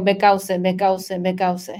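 "because" read as if spelled in Spanish, beh-COW-seh; repeated Spanish-style "because" as beh-cow-seh; mispronounced because. Shown as a demonstration. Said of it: "cuando me da el tic nervioso, siempre digo".

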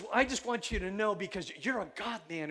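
imitated thick Persian accent. Neighbor addressing the pastor earnestly, imitated Persian accent. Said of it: "It was just almost like this".

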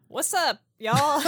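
loud, high, hammed-up show opener; mock catchphrase greeting. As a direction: belt it out as a jokey catchphrase. Jokingly demonstrates a show catchphrase.

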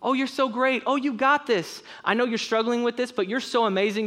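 a hint of an over-encouraging cheerleader; flattering voice. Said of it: "the voice that tells you how awesome you are".

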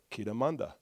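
brief, low, soft burst of prayer language; short tongues sentence. Shown as a demonstration. Preacher showing a short sentence in tongues, soft brief prayer. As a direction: pray one short phrase, low and quiet. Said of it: "Some, some sentences are short".

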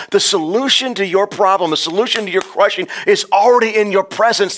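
high and loud climax, hammering every word; a rousing pulpit shout; shouted preaching. Acted. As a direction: proclaim it at the top of your voice.

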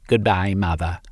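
ordinary delivery

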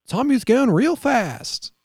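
put-on high whiny little-kid voice telling mom; playing the young brother tattling to mom; mock kid voice. Retelling, mimics child voice to mom.

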